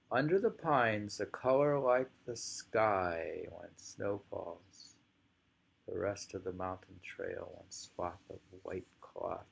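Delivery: slow poetry recital; poem reading. Acted. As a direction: reread the verse slowly, fading at the end. Rereading the poem.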